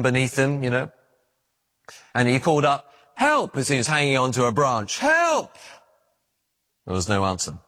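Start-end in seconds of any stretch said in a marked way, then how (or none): 3.1-3.6 high, desperate call upward; desperate cry for help. Acted. Man hanging from a branch calls for help, desperate. Man dangling from cliff calling. 5.0-5.6 high, desperate call upward; desperate cry for help. Acted. Man hanging from a branch calls for help, desperate. Man dangling from cliff calling.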